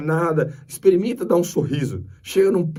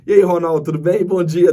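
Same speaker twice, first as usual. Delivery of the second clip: bright, louder hello with a big smile; cheery loud greeting; 3 semitones higher, 7 dB louder than usual. Retold or imitated. Greeting the attendant Ronaldo, loud and beaming. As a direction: greet him like an old friend, beaming.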